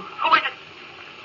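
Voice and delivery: slow, breathless whisper; weak whisper. Acted. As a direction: barely get the words out. Weak reply drifting in space.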